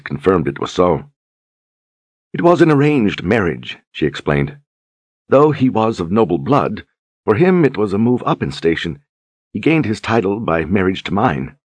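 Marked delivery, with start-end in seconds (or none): 2.3-11.6 a higher, lightly played noblewoman; lightly voiced Duchess. Duchess explains her marriage to Richard, lightly higher. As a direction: explain it gently, higher than the narration.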